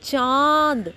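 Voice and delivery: चांद with a long vowel through throat and nose; nasalised vowel. Shown as a demonstration. Teacher shows anunasik, चांद with a long nasal vowel. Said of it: "नाक से आवाज़ निकलेगी".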